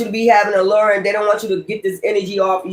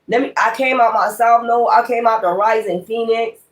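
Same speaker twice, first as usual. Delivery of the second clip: mock boaster; 3 semitones higher than usual. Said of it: "people just talk just like that".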